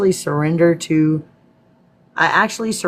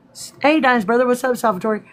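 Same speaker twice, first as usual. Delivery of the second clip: excited greeting; 9 semitones higher than usual. Real, not acted.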